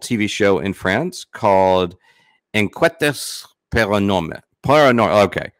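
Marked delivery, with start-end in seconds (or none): 2.5-5.2 hesitant go at French pronunciation; attempted French accent. Real, not acted. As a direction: try the French title, then falter. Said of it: "have her pronounce that one".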